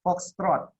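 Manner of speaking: Foxtrot said crisply, both syllables clear; teacher models Foxtrot for students to copy, crisp; Foxtrot modelled. Shown as a demonstration. Mencontohkan Foxtrot dengan jelas. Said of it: "coba kalian peragakan sekarang".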